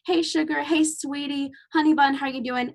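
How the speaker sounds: lightly voiced Southern patient calling her sugar; Southern greeting. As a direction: coo it like a friendly Southern patient. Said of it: "They'd come in saying".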